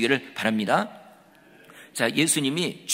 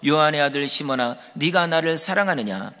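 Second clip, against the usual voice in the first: like a replayed tape; 3 dB louder than usual. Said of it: "마치 테이프 틀어놓은 것처럼".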